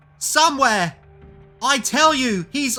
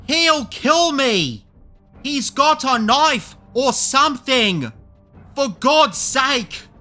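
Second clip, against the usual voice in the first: high, loud, drawn-out screaming; slow hysterical wail; frantic terror; 12 dB louder, much slower than usual. A narrator's reading. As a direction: beg for your life in panic. Marvel frantic, hunted by killer.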